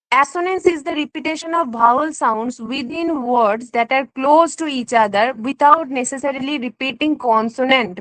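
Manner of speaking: very slow, careful textbook reading; reading a definition. Acted. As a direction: read it out word by word for the class. Reads definition slowly. (ধীরে ধীরে সংজ্ঞা পড়ে শোনানো)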